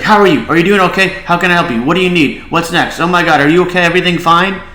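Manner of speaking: mock-fussing coworker piling on the questions; bombarding questions. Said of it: "And everyone's like".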